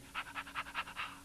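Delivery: quick, soft unvoiced pulsing breaths; energetic panting. Shown as a demonstration. Teacher showing breath energy, rapid voiceless panting. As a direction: pump out short puffs from the body. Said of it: "in the body, all that energy".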